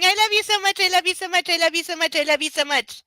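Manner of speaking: retold cooing. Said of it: "I was going".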